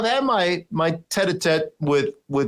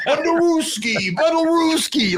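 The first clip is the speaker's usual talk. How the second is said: mumbled Andy Reid impression; 14 semitones higher than usual.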